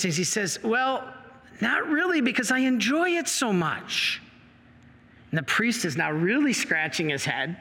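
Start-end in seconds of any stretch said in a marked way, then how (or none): 0.6-4.2 higher, cheeky admission, lightly voiced; a touch of cheek, pitched up; sheepish honest admission. Teen to priest, cheeky and higher. Boy admits enjoying sin.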